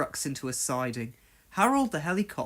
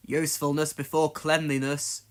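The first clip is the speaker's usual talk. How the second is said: reminding. Acted. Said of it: "reminded his driver".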